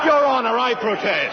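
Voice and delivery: loud, high protest; sharp objection. Acted. Prosecutor objecting to the judge, loud and high. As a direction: jump up to object.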